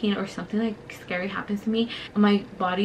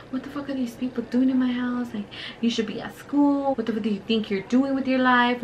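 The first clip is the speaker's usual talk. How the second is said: higher-pitched telling-off, no real shouting; mock angry uncle; 3 semitones higher than usual. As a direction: imitate an uncle going off on his nephew. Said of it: "The uncle was going off on him".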